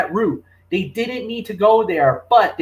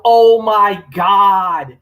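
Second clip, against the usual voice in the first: slow, louder imitated "Oh my God" yell; 6 dB louder, much slower than usual. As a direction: recreate the shocked scream, drawn out. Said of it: "I would have screamed out".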